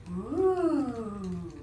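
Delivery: long falling "ooh" of wonder; drawn-out ooh. Acted. Little girl looking towards the bubble, long ooh. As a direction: voice a child's lingering ooh. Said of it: "she's going".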